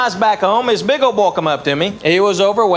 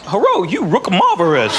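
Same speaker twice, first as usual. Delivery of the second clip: mock Asian accent; 3 semitones lower than usual. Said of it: "you expect me to say something like".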